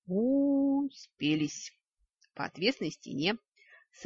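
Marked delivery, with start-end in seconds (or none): 0.1-1.7 high, put-on grumble; mocking aside. A narrator's reading. Narrator grumbles at her squabbling brain, mock voice. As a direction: sneer at the pair in a funny voice.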